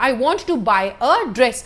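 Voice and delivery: very slow, every word apart; slow example read. Shown as a demonstration. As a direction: dictate it slowly for the class. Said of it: "तो मैंने a dress बोला".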